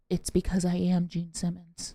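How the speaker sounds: low, slow, soft celebrity voice; rock star impersonation. Retold or imitated. Rock star turning round to a teenager in line, low slow impersonation. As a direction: drop it low and draw it out coolly. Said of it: "that was a perfect rock star".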